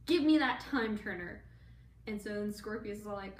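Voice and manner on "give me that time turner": mock demand. Parents demanding the time turner.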